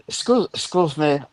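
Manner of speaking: lightly attempted German accent, halting start. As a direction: try a German tourist's accent, stumbling. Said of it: "You gotta do the impersonation for me".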